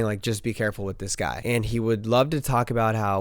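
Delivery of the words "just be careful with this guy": God's warning. Retold or imitated. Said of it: "God saying".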